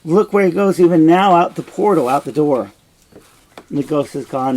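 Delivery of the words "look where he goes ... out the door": urgent Hamlet. Acted. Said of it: "And Hamlet says".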